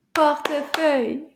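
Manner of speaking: "Portefeuille" broken into even, firm syllables. Shown as a demonstration. Teacher clapping the word with class, even separated beats. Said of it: "see if we can clap that one".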